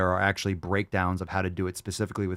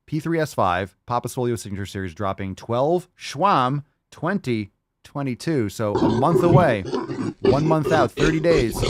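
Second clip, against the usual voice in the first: excited, higher and louder countdown; hyped announcement; 3 semitones higher, 3 dB louder than usual. Real, not acted. Host hyping the fans for a product drop, excited. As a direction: pump up the drop like a hype man.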